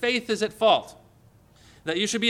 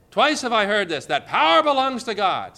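forceful preaching quote; 5 semitones higher, 5 dB louder than usual. Real, not acted. Preacher quoting David forcefully.

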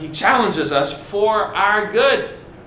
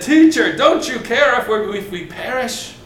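frightened plea; 4 semitones higher than usual. Acted. Disciples panic in storm.

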